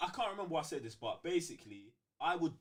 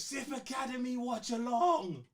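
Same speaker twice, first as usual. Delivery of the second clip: higher, slow, drawn-out announcer slogan; a mock teacher calling the class to order, slow and grand; teacher announcing; 9 semitones higher, 3 dB louder than usual. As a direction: proclaim it like a class motto, stretching every word. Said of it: "You heard your teacher".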